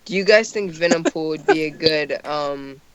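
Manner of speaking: drowsy, nodding off; sleepy, dragging words; half asleep. Real, not acted. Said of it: "I'm ha-, half asleep".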